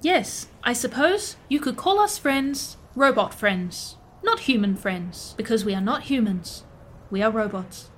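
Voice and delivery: deliberate, matter-of-fact robot phrasing; robot carefully correcting a definition; literal-minded robot. Acted. Plays a robot character.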